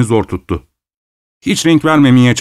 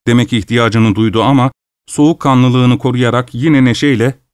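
plain reading voice

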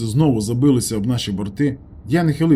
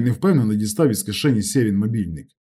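plain reading voice

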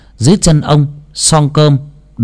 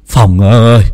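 calling out; 6 dB louder than usual. Acted. Calls Phong loudly.

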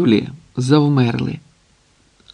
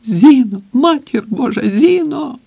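much higher, desperate repeated calls; hysterical crying out; 11 semitones higher than usual. A narrator's reading. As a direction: call her name, frantic and breaking. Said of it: "Кричить, ніяк не зупиниться". (розпачливий, високий крик)

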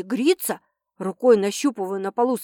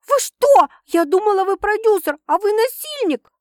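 high, loud outraged scream; wail; 8 semitones higher, 5 dB louder than usual. Acted. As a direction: scream it out in shock. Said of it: "вырывается из меня вопль".

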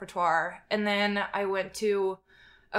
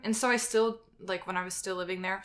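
shivering, teeth chattering. Real, not acted. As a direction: talk through chattering teeth. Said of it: "sorry, I'm so cold, my teeth are chattering".

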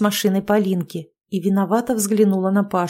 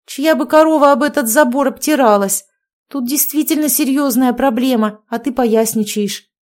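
higher, louder scolding; indignant; 5 semitones higher, 5 dB louder than usual. A narrator's reading. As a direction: rebuke her for clowning, mildly outraged. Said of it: "возмутилась Анжелика". (возмущённо отчитывая)

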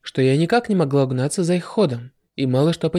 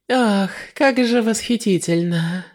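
laughing; 4 semitones higher, slower than usual. Acted. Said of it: "рассмеялась девушка".

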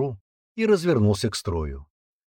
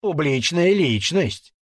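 slow, high, teasing echo; a soldier parroting the teen to mock him; mocking mimicry; 5 semitones higher, 3 dB louder, much slower than usual. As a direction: mimic the boy's words scornfully. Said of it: "передразнил Сергеич".

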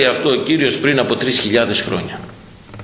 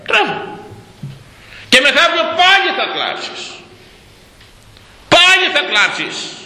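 mocking scorn; 13 semitones higher than usual. Real, not acted. Mocking voters who will cry.

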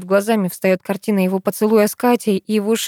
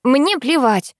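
shouted defiance; 6 semitones higher, slower than usual. A narrator's reading. Daughter shouting at her mother through the door, defiant shout. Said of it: "кричу я".

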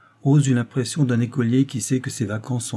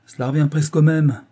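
louder, higher brusque retort; rough, blunt; 5 semitones higher, 6 dB louder than usual. A narrator's reading. Doctor dismisses the woman's sad excuse, rough and blunt. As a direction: cut her short rudely. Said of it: "dit rudement Langlois".

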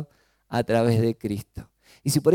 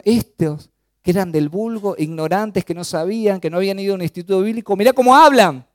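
higher, louder, building to an astonished exclamation; imitated amazement; 5 semitones higher, 6 dB louder than usual. Onlookers marvelling at how unschooled disciples speak, acted amazement.

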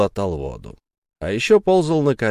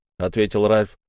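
plain reading voice

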